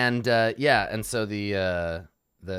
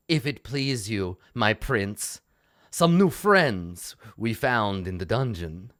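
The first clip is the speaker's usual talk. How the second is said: fawning lord; 3 semitones higher, 6 dB louder than usual. Acted. Bloodtalon voiced by the DM.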